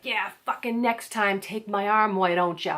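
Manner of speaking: imitating a stranger's irritated snap; mock-hostile jab after being bumped. Stranger bumped in the park, mock hostile snap. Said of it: "This guy is hostile".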